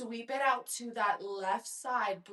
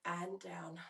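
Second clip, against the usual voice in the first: put-on slipping into a British accent mid-cue; lightly put-on British accent, higher; a hint of her British father's accent, laughing; 6 semitones higher than usual. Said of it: "God, my British father".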